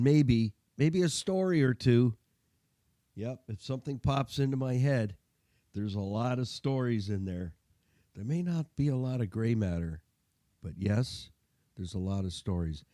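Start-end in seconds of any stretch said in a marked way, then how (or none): 5.7-12.8 gargly, congested voice from a winter cold. Real, not acted. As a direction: sound gargly, like in a tunnel. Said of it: "if I sound a little gargly".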